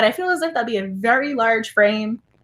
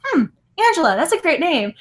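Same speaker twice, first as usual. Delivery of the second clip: lightly higher hum, then Angela, then the approval; musing over a name; 4 semitones higher than usual. Retold or imitated. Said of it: "she kept saying my name over and over".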